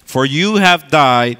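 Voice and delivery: emphatic, proclaiming Bible reading; scripture reading. Acted. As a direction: read the verses out like preaching. Reads scripture from Colossians.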